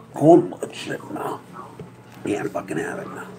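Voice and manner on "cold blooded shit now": "Cold-blooded shit now" drawn out slowly, loud and higher, each word hammered; emphatic slow yell. Real, not acted. Repeating his point to the camera as an emphatic slow yell.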